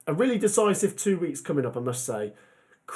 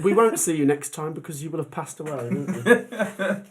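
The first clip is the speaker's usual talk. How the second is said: joking through a laugh; laughing tease. Real, not acted. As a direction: tease him while laughing. Teasing the sneezing co-host.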